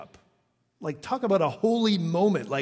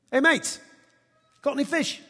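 higher-pitched, playful attempt at an Aussie accent; 10 semitones higher than usual. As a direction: hail your mates with an amateur Aussie accent. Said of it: "if you're an Aussie".

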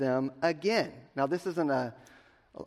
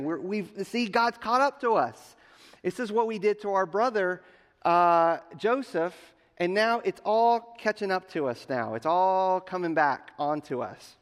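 higher-pitched dawning dread, lightly played; acted guilty alarm; 5 semitones higher, 3 dB louder than usual. Brothers telling each other their crime caught up, mild acted alarm. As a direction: voice the brothers' rising worry.

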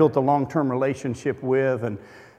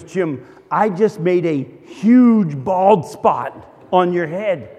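mock crying wife; much slower than usual. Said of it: "she starts to cry".

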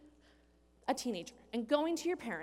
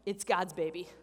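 laughing reassurance; 5 semitones lower, 4 dB louder than usual. Retold or imitated. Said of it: "She's like".

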